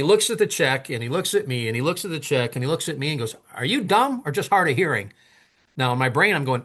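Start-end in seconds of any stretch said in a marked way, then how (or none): 3.5-5.1 higher-pitched retold jab; exasperated insult. Man stares at the check, then an exasperated jab. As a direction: needle him as if he's dense.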